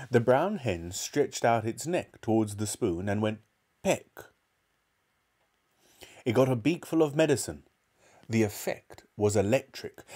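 put-on measured children's storybook reading; story narration. A narrator's reading. Narrator telling of George's trouble, storytelling. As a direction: read the tale aloud with care.

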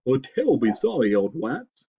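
stuffed-up, lisping moose; sniffling moose. A narrator's reading. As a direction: talk through a bad head cold. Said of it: "sniffed the moose".

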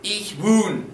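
"Ich wohne" said as ish VOO-neh, clear and careful; model answer. Shown as a demonstration. Teacher giving the model answer to students, careful pronunciation. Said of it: "What was the ending for ich?".

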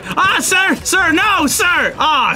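high frantic begging; high, flustered protest; panicked pleading. Real, not acted. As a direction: plead with an attacker to stop. Pleading with attacker in game.

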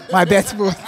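mock-obedient repeat of the corrected word; a teasing echo of the fix; mock correction. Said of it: "don't correct me".

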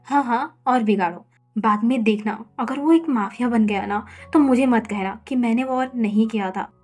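irritated. Acted. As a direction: grumble at him for spoiling the boy. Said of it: "विंग चिढ़ते हुए बोला". (चिढ़कर, ऊँची आवाज़ में ताना)

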